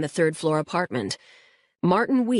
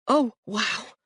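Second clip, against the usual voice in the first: awed; 5 semitones higher than usual. Acted. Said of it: "He isn't yelling anymore".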